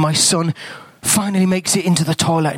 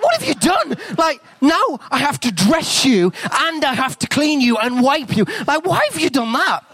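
high, exasperated squeal at the mess; 9 semitones higher than usual. Retold or imitated. Dad finding his son naked in the toilet, squealing high. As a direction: squeak out the disbelief.

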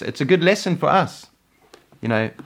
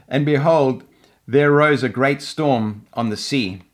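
scripture reading. Acted. Reads scripture passage aloud.

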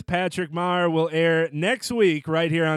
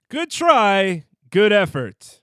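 segment title; 3 semitones higher, 4 dB louder, slower than usual. Shown as a demonstration. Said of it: "America's fastest growing sports segment".

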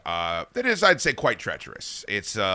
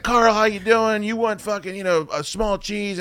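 high-pitched imitation of pizza staff; chummy counter greeting; 9 semitones higher than usual. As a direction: greet a regular from behind the counter. Acts out staff greeting a regular.

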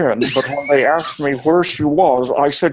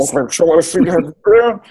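underwater voice. Shown as a demonstration. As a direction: warbly voice as if underwater. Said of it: "you sound like you're also underwater".

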